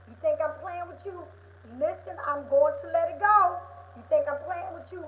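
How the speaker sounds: loud, high, heated telling-off; rising to a near shout as the scolding builds; worked-up scolding. Acted. Scolding a friend who won't move on, loud and high.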